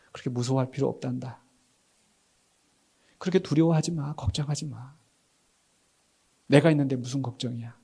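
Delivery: soft, soothing voice; tender reassurance. Acted. The Lord comforting fearful followers, tender and soft. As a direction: gently talk away their worry. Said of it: "주님이 원하시는 거".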